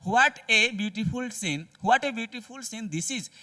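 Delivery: very slow, drawn out what a beautiful scene; slow exclamation demo. Shown as a demonstration. Teacher reading an exclamation aloud slowly to the class. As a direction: stretch each word of the exclamation. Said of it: "तो ऐसे में देख रहे हैं कि what".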